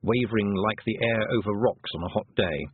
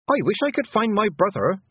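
high, louder call for her brother; said aloud; 11 semitones higher, 4 dB louder than usual. A narrator's reading. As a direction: say it out loud, high and strong. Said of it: "she said aloud".

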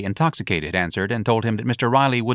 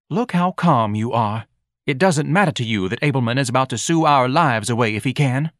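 lightly voiced nagging wife; 4 semitones higher, 3 dB louder than usual. Mrs Levy nags.

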